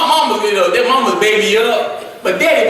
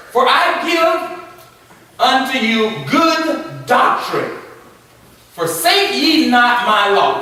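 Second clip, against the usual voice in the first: drawn-out, reverent reading of the verse; slow scripture reading; 2 semitones higher, slower than usual. Acted. Preacher reading scripture to the class. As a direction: read it slowly like holy writ.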